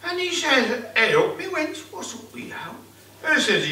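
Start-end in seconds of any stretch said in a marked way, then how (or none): 0.9-2.6 high, loud startled husband; husband's startled call. Acted. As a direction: call out to the weeping wife. Husband asks weeping wife.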